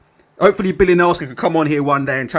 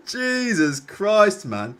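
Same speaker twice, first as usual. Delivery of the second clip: exasperated groan; much slower than usual. Real, not acted. Streamer despairing at the fight card, slow exasperated drawl. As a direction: stretch it out slowly in weary disbelief. Reacting to chat joke.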